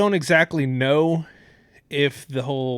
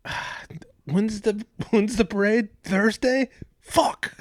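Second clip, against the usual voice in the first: mock reluctant player; 8 semitones higher, slower than usual. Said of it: "they're like".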